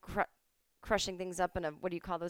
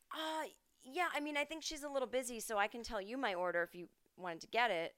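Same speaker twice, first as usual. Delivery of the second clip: higher, fast sweet helpfulness; overly polite self; 5 semitones higher than usual. Retold or imitated. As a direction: play it overly nice and accommodating. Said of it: "And I said".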